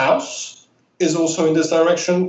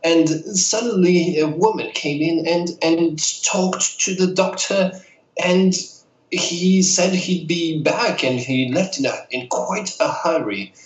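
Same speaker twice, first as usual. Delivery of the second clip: lightly voiced old lady, a bit higher; a hint of a chatty elderly woman; 3 semitones higher than usual. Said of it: "I love your old lady voice".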